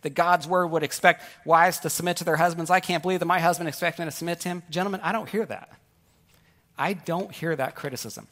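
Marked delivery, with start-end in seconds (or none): 0.0-4.6 hammed-up outraged complaint; mock complaining. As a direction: gripe in exaggerated disbelief, as an outraged wife. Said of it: "complaining about submission".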